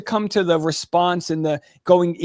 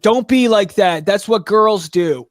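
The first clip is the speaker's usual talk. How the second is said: stern dad; 4 dB louder, slower than usual. Retold or imitated. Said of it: "his dad's like".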